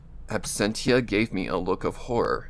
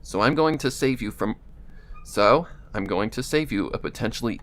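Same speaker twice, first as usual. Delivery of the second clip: Absentia voice. Acted. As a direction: speak a little through the nose. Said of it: "the Absentia voice".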